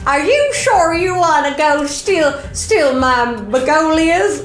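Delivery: put-on high, slow, creaky old lady. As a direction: play a doddery granny fretting over her mail. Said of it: "I can do a very good old lady".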